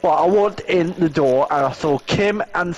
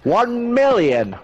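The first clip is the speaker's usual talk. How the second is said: higher and slowed, stretching it out; exclaiming; 8 semitones higher, slower than usual. Real, not acted. Gamer exclaims the real price to his friend. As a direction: land the big number in outrage.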